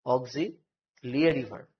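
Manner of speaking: "অক্সিলিয়ারি" slowly split as "og-zi ... li-a-ri"; original pronunciation, broken up. Shown as a demonstration. Teacher repeating it for students, "অক্সিলিয়ারি" slowly as og-zi, li-a-ri. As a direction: say "অক্সিলিয়ারি" slowly, pausing before li-a-ri. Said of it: "উচ্চারণটা original কি?".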